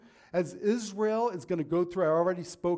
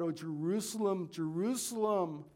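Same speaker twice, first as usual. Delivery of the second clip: lament. Retold or imitated. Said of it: "he's crying out".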